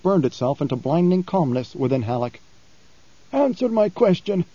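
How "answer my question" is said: a lightly voiced preacher pressing his question; blind preacher. Blind preacher challenging Halleck, probing. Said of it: "the preacher said".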